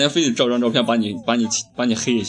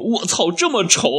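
loud jeer; 9 semitones higher, 3 dB louder than usual. Retold or imitated. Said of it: "然后就大声地说".

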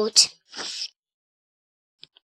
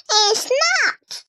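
insisting little sister; 10 semitones higher than usual. A narrator's reading. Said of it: "Dora insisted".

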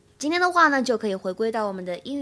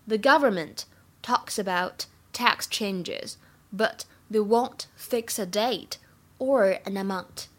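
slow reading; slower than usual. Shown as a demonstration. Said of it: "请同学们呢翻译下面这个句子".

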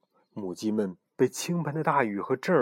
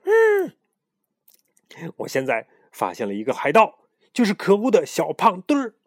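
crazed hissing shout; 8 semitones higher, 6 dB louder than usual. Acted. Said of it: "嘶喊道".

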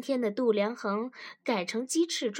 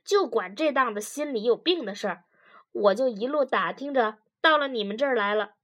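louder, quick talk of a husband; a husband telling his story, louder and brisk; lightly voiced husband; 4 dB louder, faster than usual. Husband explains to a therapist how they got here, lightly voiced.

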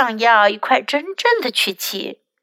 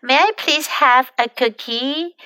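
polite request. Shown as a demonstration. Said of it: "就显得更加有礼貌了".

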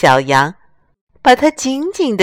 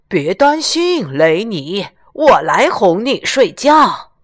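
cow lady voice; slower than usual. Acted. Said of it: "牛太太走了进来，大声说".

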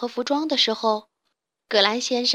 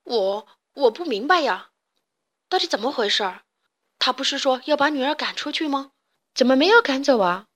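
puzzled; 2 semitones higher than usual. Acted. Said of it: "疑惑地问道".

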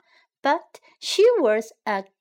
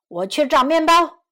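higher, louder fox voice; fox character; 4 semitones higher, 7 dB louder than usual. A narrator's reading. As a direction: announce it as the fox. Fox announces his errand.

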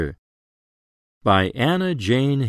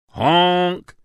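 higher honking horn; truck honk; 7 semitones higher than usual. A narrator's reading. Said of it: "goes a truck".

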